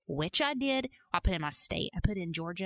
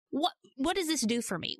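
ordinary delivery

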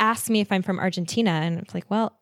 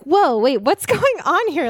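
surprised; 8 semitones higher, 4 dB louder than usual. Retold or imitated. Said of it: "I'm like".

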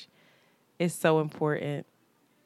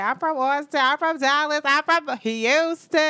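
imitating excited fans; 7 semitones higher, 3 dB louder than usual. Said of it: "They was like".

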